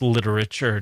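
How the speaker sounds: "literature" with every one of four syllables sounded; four-syllable pronunciation. Pretend. Host imagines quizzing rival interns, four-syllable "literature". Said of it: "That fourth syllable is the extra ingredient".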